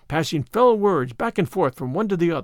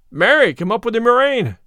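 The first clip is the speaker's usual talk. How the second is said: angry cry; 6 semitones higher, 5 dB louder than usual. A narrator's reading. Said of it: "cried the tanner".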